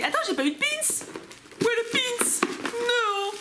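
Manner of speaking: high-pitched panic; real surprise, voice jumping high; alarmed. Real, not acted. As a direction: cry out in sudden alarm. Panics about missing pin.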